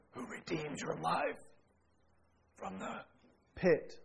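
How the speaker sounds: slow, soft words as the voice cracks; voice breaking. Retold or imitated. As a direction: let the voice break on pit. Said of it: "And his voice broke".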